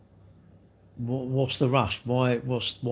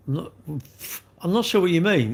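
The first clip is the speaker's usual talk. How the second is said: exasperated repeat; 5 semitones higher than usual. Real, not acted.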